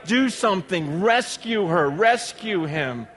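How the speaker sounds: desperate parent's plea, high and urgent; begging plea. Pretend. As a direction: beg them to find the child. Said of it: "just begging you".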